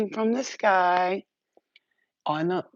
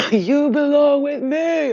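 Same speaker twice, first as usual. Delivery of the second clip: demon voice; 12 semitones higher, 10 dB louder, slower than usual. Retold or imitated. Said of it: "he was like".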